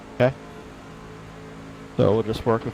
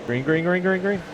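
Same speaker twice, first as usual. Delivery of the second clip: urgent callout; 6 semitones higher than usual. Real, not acted. Spotter calls the green flag.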